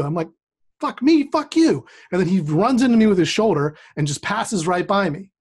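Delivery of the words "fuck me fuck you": high, slow, mocking comeback; mock retort. Teen answering Brian's insult, slow high mock anger. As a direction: stretch out the retort to mock him.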